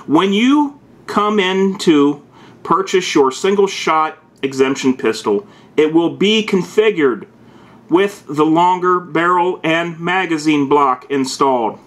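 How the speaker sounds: slow, barked command reading; drill sergeant voice. Acted. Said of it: "I'm talking like a drill sergeant".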